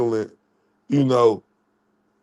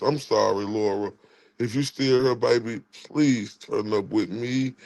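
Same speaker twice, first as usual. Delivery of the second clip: low, soft apology; hushed, heartfelt sorry; apologetic; 3 semitones lower, 4 dB quieter than usual. Real, not acted. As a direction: plead gently for forgiveness. Contrite apology to Laura over missing message.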